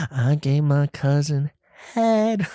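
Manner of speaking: slow, rising mock rapper line. Vlogger imitating a rapper's lyric, slow, lightly hammed. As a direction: draw it out, pop up on head. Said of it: "He's like".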